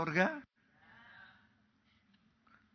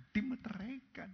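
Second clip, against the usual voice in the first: "dimeteraikan" whispered, higher; whispered echo; 8 semitones higher, 6 dB quieter than usual. Shown as a demonstration. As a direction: breathe "dimeteraikan" as a secret. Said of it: "itu dimeteraikan".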